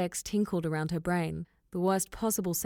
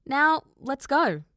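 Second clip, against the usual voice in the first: loud, slow call across; urgent call to get going; 7 semitones higher, 6 dB louder, slower than usual. Acted. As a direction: call her over, drawn out. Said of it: "Nell called for her".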